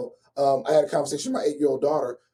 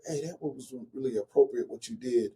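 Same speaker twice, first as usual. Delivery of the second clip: retold whisper; 3 semitones lower, 6 dB quieter than usual. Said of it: "I'll whisper in her ear".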